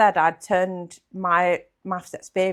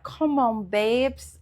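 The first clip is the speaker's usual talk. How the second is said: imitating a London accent, slightly raised pitch; 4 semitones higher, much slower than usual. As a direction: put on a light London accent. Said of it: "in his London accent".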